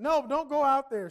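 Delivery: imitating an upset wife; wife upset, loudly refusing to let him go out; upset insisting. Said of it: "She's still upset".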